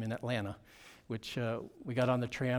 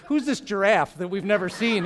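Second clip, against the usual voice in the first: put-on higher, louder childlike wondering; imitating a puzzled kid; 6 semitones higher, 8 dB louder than usual. Kid staring at big white pastor, higher puzzled voice. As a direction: voice the kid's thought about the tall stranger. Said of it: "it was like".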